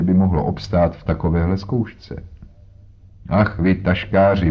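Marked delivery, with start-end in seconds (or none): 3.3-4.5 a touch of a delighted rebuke; lightly voiced teasing outburst; half-hearted cry of admiration; mock scolding exclamation. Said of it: "vykřikl Jones".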